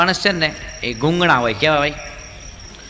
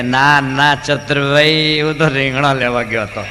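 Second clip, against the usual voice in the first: slow, louder drawn-out reply; deaf man's loud reply; 4 dB louder, slower than usual. Retold or imitated. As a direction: answer too loud, slowly. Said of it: "બેરો જોરથી બોલે". (બહેરા માણસનો ધીમો, મોટો જવાબ)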